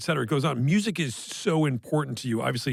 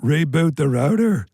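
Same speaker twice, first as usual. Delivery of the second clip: mock instruction; 7 dB louder, slower than usual. Mock tech advice.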